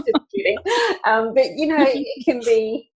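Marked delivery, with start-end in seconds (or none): 0.0-0.6 high, playful mock crowning; playful teasing. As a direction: tease her with a grand title, lightly.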